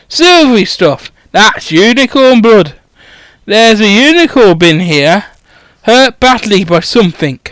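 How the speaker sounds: a hint of a rough, rambling giant; lightly voiced groundskeeper. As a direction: ramble about the pub like a gruff local. Groundskeeper rambles about pub.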